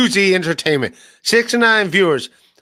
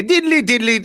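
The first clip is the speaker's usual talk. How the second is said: higher-pitched stereotyped Irish ending; mock Irish impression; 5 semitones higher than usual. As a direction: lilt it like a bad Irish impression. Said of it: "whenever someone does an Irish".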